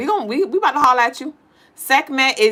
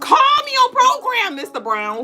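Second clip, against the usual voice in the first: laughing mock plea; 11 semitones higher, slower than usual. Laughing mock plea to Mister Brown.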